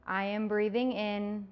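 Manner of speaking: calm, measured yoga nidra voice with long pauses; unhurried, even-toned relaxation script, lingering between phrases; guided meditation. Acted. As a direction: guide them gently towards sleep, phrase by phrase.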